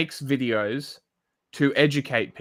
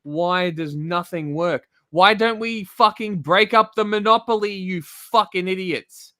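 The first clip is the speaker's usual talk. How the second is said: mock whinging. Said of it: "You rather whinge and say".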